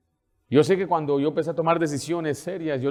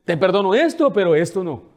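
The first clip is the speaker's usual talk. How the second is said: half-hearted forgiveness; 4 semitones higher, 6 dB louder than usual. Retold or imitated. Mocking partial forgiveness.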